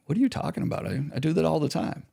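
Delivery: mock-baffled, can't believe the charge; incredulous. Husband baffled by wife's accusation, high incredulous. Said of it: "You're like".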